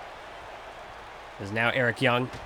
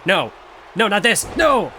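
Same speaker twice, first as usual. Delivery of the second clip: rising, louder, higher cries of no; excited shout; 5 semitones higher, 4 dB louder than usual. Acted. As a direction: build from a protest to a yell. Commentator reacts to a finisher.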